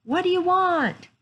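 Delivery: high-pitched lady calling back; high feminine voice. A narrator's reading. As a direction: answer in a high, drawn-out feminine voice. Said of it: "a high feminine voice answered".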